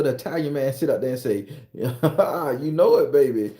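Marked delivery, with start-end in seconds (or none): 1.7-3.5 slow smug reply. Acted.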